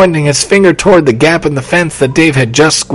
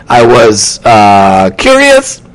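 sheepish answer; 4 semitones lower, 4 dB louder, much slower than usual. A narrator's reading.

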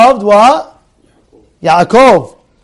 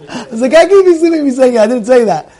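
laughing; 6 semitones higher, faster than usual. Retold or imitated. Laughing retelling.

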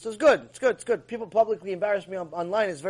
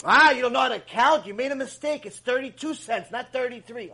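mock yelling customer; 4 semitones higher than usual. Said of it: "They start yelling at the employees".

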